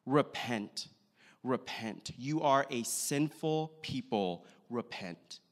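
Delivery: retold stern preacher, slow and measured; understated stern call, each phrase falling and set apart. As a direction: deliver it as a restrained, stern warning. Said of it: "with a very stern voice".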